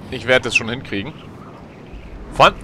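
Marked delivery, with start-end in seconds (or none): 2.3-2.5 astonished. Real, not acted. Astonished at height.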